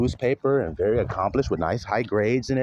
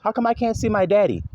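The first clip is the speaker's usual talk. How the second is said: put-on child's plea; 8 semitones higher than usual. Child asking for absent father.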